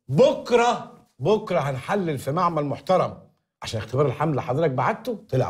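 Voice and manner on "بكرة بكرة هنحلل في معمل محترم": drawn-out. Acted. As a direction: stretch bokra slowly, stalling. Stalling about the test.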